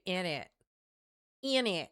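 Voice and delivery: botched British accent sliding into Texan; Southern-tinged British accent. Shown as a demonstration. Streamer failing at British slang, Southern-tinged British accent. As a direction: try British and land in Southern. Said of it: "I get so Southern with it".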